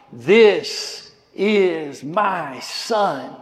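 very slow, solemn divine declaration; lightly voiced God the Father. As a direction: let God's words ring out slowly. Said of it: "the very voice of God acknowledging".

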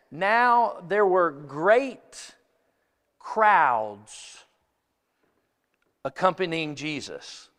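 very slow, deliberate reading; slow scripture reading. Acted. Preacher reading the crowd verse to the congregation, very slow. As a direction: let each word land.

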